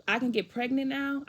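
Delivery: retold incredulous child's comeback; mad disbelief. Daughter throwing dad's pregnancy remark back, mad disbelief. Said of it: "I'll get mad".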